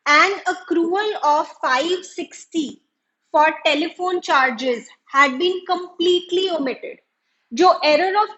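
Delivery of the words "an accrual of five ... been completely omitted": reading the exam question aloud, very slow and deliberate; slow, careful dictation of a textbook problem. Acted. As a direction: dictate the question word by word to the class. Teacher reads the exam question aloud.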